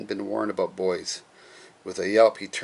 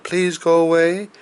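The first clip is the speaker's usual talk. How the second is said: higher, louder insistent please; firm polite command; 9 semitones higher, 5 dB louder than usual. Acted. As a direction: insist firmly on the magic word. Ollie politely banishing the witch.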